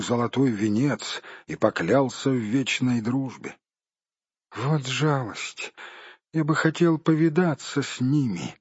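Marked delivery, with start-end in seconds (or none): 4.5-8.5 sleepy. Acted. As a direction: say it half asleep. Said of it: "сонно проговорил хоббит". (сонно)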